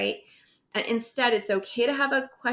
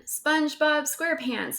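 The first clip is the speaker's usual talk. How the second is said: exclaimed name; 6 semitones higher than usual. Acted. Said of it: "exclaimed the kids".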